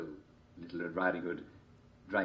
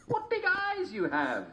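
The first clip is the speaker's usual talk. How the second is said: put-on slow girl voice; slower than usual. A narrator's reading.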